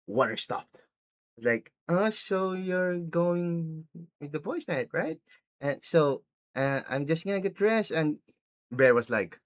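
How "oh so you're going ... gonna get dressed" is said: mock eager girlfriend. Acted girlfriend inviting herself along.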